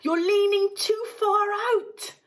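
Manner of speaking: father warning his son at the river's edge; shouted warning. A narrator's reading. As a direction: call out in alarm. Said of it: "shouted Mister Gloop".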